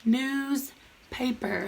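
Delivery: Newspaper drawn out slowly and softly; very slow sounding out. Shown as a demonstration. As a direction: stretch Newspaper so children hear each part. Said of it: "what do you see in here".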